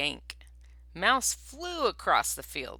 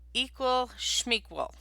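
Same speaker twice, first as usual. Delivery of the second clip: mumbled; 7 semitones higher than usual. Acted. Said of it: "Bear mumbled with a mouthful".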